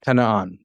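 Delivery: "kana'an" slowly with a vowel between k and n; helping vowel. Shown as a demonstration. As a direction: voice a short a after the K of "kana'an". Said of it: "you'd have the helping".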